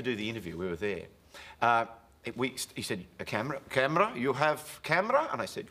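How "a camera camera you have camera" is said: put-on Russian accent. Nureyev voiced in story.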